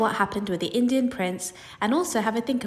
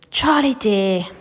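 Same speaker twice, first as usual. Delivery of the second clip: called out; 2 semitones higher, 4 dB louder, slower than usual. Acted. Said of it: "called out".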